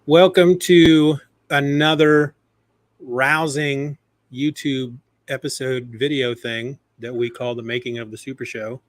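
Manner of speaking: slow, drawn-out host welcome; show-opener announcer. Acted. Host welcoming viewers to a rousing YouTube episode, announcer style. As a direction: roll out a big, spaced-out show greeting.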